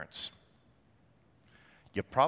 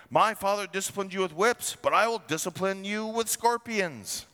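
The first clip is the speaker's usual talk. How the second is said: threat pitched higher, harsh and forceful; the king's harsh answer, raised and hard; 6 semitones higher than usual. Acted. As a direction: bark it down at the people like a tyrant. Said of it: "answered them harshly".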